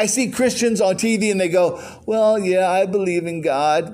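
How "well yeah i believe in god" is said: a touch of a limp, whiny Christian; mock whine. Preacher mocking weak Christians on TV, mildly whiny. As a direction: imitate a feeble believer, lightly whining. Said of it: "Whine, whine, whine".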